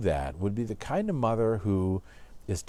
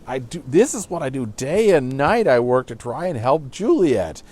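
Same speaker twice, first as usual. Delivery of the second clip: exasperated father; 3 semitones higher, 7 dB louder than usual. Retold or imitated. Teacher voices angry Capulet.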